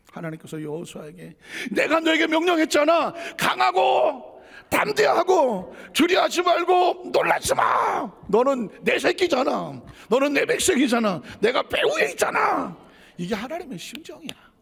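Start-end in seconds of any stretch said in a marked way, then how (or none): 1.7-12.8 commanding shout. Acted. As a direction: roar the command like a desperate God. God urgently commanding Joshua.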